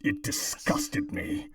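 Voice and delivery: robotic voice filter. Pretend. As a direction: intone it like a cult machine. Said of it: "try reading the copy pasta".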